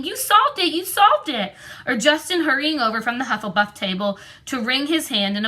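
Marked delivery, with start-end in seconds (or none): 0.0-1.5 high joyful cry; overjoyed, running to him; excited scream. A narrator's reading. Hermione running to Harry, screaming with joy. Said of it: "Hermione running toward him screaming".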